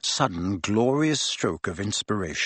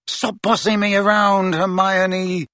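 higher-pitched irritated retort; 8 semitones higher, 3 dB louder, slower than usual. A narrator's reading. Ron rebuffs Hermione after draining the glass, irritated. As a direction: push back at her, pitch held high.

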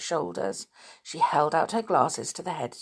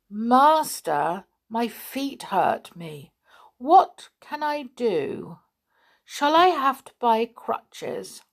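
higher, slow plaintive complaint; whiny stupid; 5 semitones higher, 4 dB louder, slower than usual. A narrator's reading. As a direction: beg the master for help.

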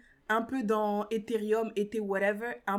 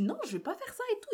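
refusal pitched way up and fast; high quick refusal; 11 semitones higher, 5 dB quieter, faster than usual. Retold or imitated. Refusing the friend's crypto push, high fast no. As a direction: brush him off, quick and high. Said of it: "J'ai dit".

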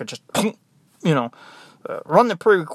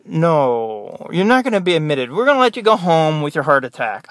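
mock-serious, emphatic false answer; sarcastic; 4 dB louder than usual. Nurse answering heart attack patient about admission, sarcastic.

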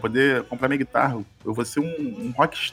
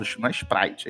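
normal talking voice

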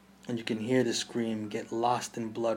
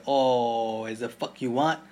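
yelled retort; 7 dB louder, slower than usual. Acted. Mother yells back at husband.

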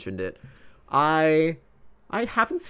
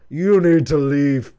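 stern quote; 2 semitones higher, 7 dB louder, slower than usual. Retold or imitated. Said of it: "they're like".

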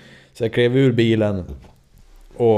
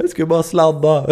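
sheepish excuse; 8 semitones higher, 7 dB louder than usual. Retold or imitated. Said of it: "Och jag bara".

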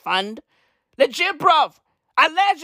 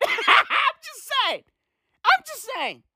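laughing; 12 semitones higher than usual. Real, not acted. Laughing off a risky claim.

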